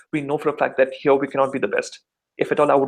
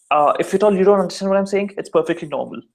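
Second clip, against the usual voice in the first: Kerala accent; 3 semitones higher than usual. Shown as a demonstration. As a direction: demonstrate a South Indian Kerala accent. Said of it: "down south in Kerala".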